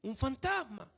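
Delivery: mildly scared disciples exclaiming; frightened exclamation. Shown as a demonstration. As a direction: cry out "Un fantasma" like a scared disciple. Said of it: "hay signos de exclamación ahí".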